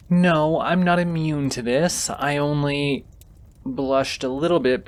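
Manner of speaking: a burst of bashful protest; flustered denial. Acted. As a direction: deny it too quickly, embarrassed.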